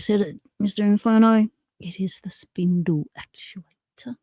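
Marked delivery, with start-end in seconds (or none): 1.8-4.2 whisper. Real, not acted. Confirms name under breath.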